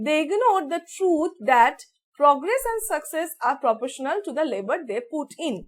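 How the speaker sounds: very slow, careful read-out; slow dictation reading. Shown as a demonstration. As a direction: stretch every word as dictation. Rereads passage slowly.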